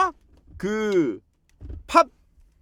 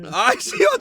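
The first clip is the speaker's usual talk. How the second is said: cursing under breath; 13 semitones higher than usual. Real, not acted. Toenails being clipped, ticklish.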